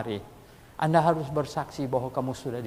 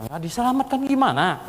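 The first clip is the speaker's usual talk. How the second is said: confused; 8 semitones higher, 5 dB louder than usual. Retold or imitated. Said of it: "Bosnya bingung".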